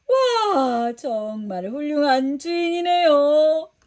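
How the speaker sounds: put-on the child is moved by such kindness; amazed. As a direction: Peter marvelling at the generous master. Peter marvels at the master.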